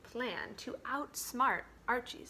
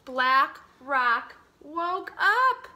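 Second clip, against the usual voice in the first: dramatic reveal; 3 semitones higher, 8 dB louder, much slower than usual. A narrator's reading. The rock awakens.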